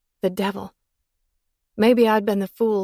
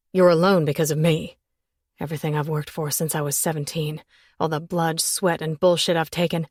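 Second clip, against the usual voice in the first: bitter; 2 semitones lower than usual. Acted. Man's bitter self-blame.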